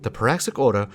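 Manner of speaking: lightly voiced earnest warlock, a touch of warning; Aunor, grave warlock. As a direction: speak as a serious, wary warlock writing to an ally. Reads warlock's message in character.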